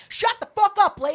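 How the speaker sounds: exasperated mock yell; retold yelling. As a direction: cut her off angrily, as retold. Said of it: "Yelling at this poor girl".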